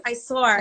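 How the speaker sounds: SAW said as "sore", with an added R; New York pronunciation. Retold or imitated. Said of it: "That's what it is".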